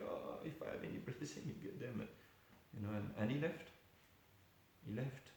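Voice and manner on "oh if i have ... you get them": laughing humble reply. Retold or imitated.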